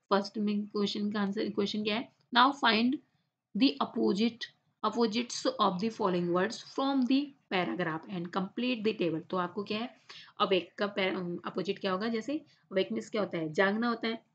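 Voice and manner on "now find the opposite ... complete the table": slow, careful read-aloud for the class. Shown as a demonstration. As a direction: read each word out slowly and clearly. Teacher reads exercise instructions aloud.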